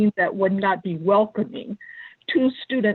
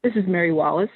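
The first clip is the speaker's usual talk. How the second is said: over the phone line; phone speaker; 3 semitones lower, faster than usual. Real, not acted. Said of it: "can you hear me on the phone".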